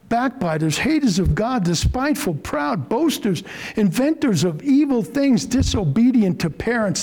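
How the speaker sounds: forceful, rising preacher's list. Real, not acted. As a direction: hammer each vice home. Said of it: "This has got to be said with force".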